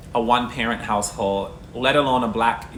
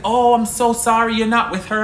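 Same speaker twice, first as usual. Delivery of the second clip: high, loud flustered stranger; mock flustered apology; 10 semitones higher, 5 dB louder than usual. Retelling the stranger who mistook his son, flustered and high. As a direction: play the embarrassed stranger, pitched way up.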